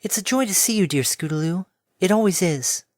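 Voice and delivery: gentle pegasus, full of affection; tender mare voice. Acted. Tender greeting.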